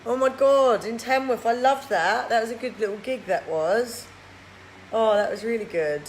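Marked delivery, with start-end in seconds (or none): 0.1-4.1 excited. Real, not acted. Excited recognition of gig.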